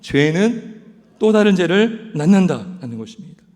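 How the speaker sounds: preacher's emphatic repeat. Shown as a demonstration. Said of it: "뭐라고요?".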